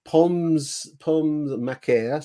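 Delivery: drawn-out English-accented French on "pommes macaire"; slow French accent. Shown as a demonstration. Host reading the potato course aloud, slow French accent. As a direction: take your time on the French words. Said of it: "my French accent is gonna be suffering".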